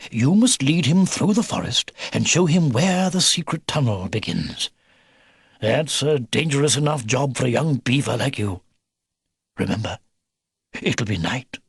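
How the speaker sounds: lightly voiced grandfatherly briefing; old beaver, instructing. Old beaver giving his grandson a job, lightly grave. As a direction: spell out the job with gentle gravity.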